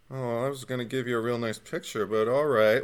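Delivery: lightly voiced, soft let-down; the Hitchhiker. Hitchhiker accepting that they refuse his picture, lightly acted resignation. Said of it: "he just kinda takes it".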